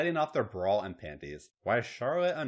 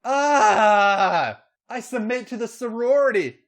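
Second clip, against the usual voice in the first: high, loud cry into a yell; acted high-pitched yell; 13 semitones higher, 12 dB louder, slower than usual. A narrator's reading. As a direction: cry out, then yell the surrender. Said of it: "Becky yelled".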